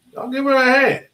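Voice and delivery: high, loud call for applause; excited cheer. Real, not acted. Teacher hypes up the class for a student, excited cheer. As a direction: whoop it up for her.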